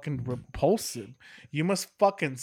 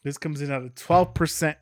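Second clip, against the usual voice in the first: ad copy read aloud; label read. Acted. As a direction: read it like a beer ad. Reads the brewery's label text.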